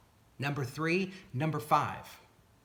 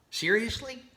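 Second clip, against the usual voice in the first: incredulous; 7 semitones higher than usual. Real, not acted. Doubting the fix.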